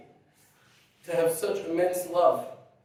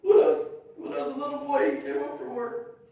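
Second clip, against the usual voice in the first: higher, laughing start of a memory; 8 semitones higher than usual. Real, not acted. Son recalling boyhood with his father, laughing. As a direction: still laughing as the story begins.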